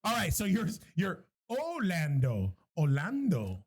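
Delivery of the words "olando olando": slow, low "Orlando" with the R dropped; Orlando without R. Shown as a demonstration. Host shows how his character's name is said, "Orlando" without R. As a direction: say "Orlando" with no R sound, drawn out. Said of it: "the R out".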